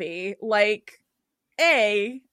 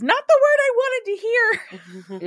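high, drawn-out, louder comic wail; mock dismay; 13 semitones higher, 5 dB louder, slower than usual. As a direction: whine it high and stretched, hamming it up. Acts out Mari's comic reaction.

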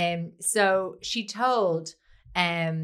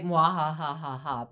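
sneering panto villain laugh; 4 semitones lower, slower than usual. Retold or imitated. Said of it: "She typed out".

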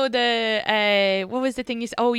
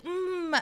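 mock moan; 10 semitones higher, 7 dB quieter than usual. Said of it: "it would be like".

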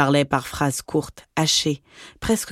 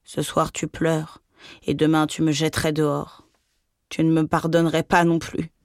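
mild crushed murmur. Acted. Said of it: "Elle murmura d'une voix accablée".

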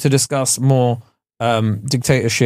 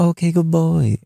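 lightly imitated masseuse, raised pitch; Thai masseuse impression; 4 semitones higher, slower than usual. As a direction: imitate a masseuse praising a client, a bit higher. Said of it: "there's one woman that's always like".

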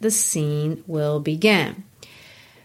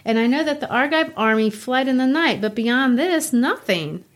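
reading Ismene; 4 semitones higher than usual. Acted. Teacher reads Ismene aloud.

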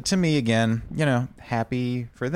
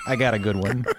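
put-on Chicago accent. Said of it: "That was good".

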